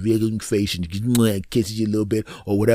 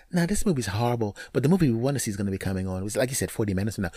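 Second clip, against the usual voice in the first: softer, quick offhand reply; quiet reply; 7 dB quieter, much faster than usual. Retold or imitated. Girlfriend replying about the movie, quiet and quick. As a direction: answer quickly under your voice.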